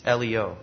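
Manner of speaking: "Elio" said as the Hebrew form of Elijah; Hebrew pronunciation. Shown as a demonstration. Preacher showing the name Elijah, "Elio" pronounced the Hebrew way. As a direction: give "Elio" its Hebrew sounds, el-ee-oh. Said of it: "in the Hebrew pronunciation for Elijah".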